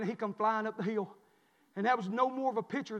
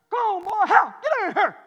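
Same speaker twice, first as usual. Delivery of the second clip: loud, raised-pitch calling; acted-out shout to come in; hollering for the dog; 11 semitones higher, 12 dB louder than usual. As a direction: holler it across the yard. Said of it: "this morning I heard".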